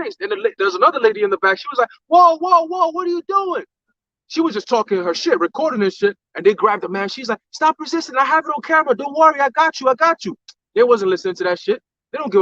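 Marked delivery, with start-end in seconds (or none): 2.1-3.6 high, imitated shout of alarm; alarmed bystander. Retells alarmed bystander shouting at police. 7.5-10.3 high-pitched imitation of a bystander filming; calling out reassurance. Retells woman calling out while filming.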